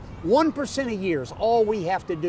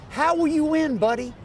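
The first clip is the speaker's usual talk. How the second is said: mock sceptic; 9 semitones higher, 4 dB louder than usual. Voicing a sceptical questioner.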